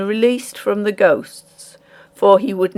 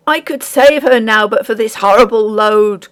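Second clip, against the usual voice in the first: crying out; 3 semitones higher, 4 dB louder than usual. Acted. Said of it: "cried the miller".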